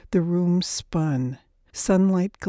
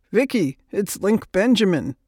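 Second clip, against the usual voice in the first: lightly ragged voice, a little louder; 2 semitones higher, 5 dB louder than usual. A narrator's reading. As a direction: announce yourself with a touch of raggedness. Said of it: "His ragged voice came over the line".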